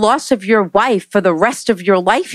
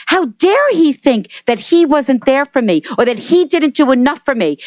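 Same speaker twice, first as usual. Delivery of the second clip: higher, indignant mock scolding; retold angry outburst; 6 semitones higher than usual. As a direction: relay her outrage at him, pitched up. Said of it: "she started yelling at me".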